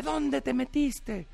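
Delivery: a high, slow worried scold; high, slow scolding father. Acted. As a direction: demand slowly, up high. (padre regañando, agudo y lento)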